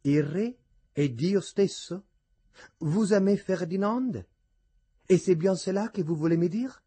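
lightly playful, lifted suitor's voice; witty, tender grace. A narrator's reading. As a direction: tease fondly as a lover. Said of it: "con intensa e spiritosa grazia".

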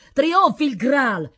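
loud, high, drawn-out acclamation; ringing, stretched cheer; chorused battle cry. A narrator's reading. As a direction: chant it slowly like a troop in chorus. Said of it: "fecero in coro gli altri".

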